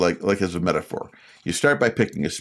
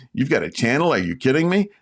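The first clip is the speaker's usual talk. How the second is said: incredulous coworker; 5 semitones higher than usual. Acted. Coworker finds out about the channel.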